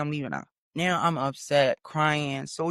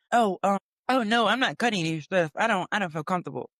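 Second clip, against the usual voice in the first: lightly mimicked hesitant white lady; a hint of the flustered lady refusing; imitating white lady. White lady balking at cutting the thread, lightly mimicked. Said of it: "white lady, I'm gonna say that".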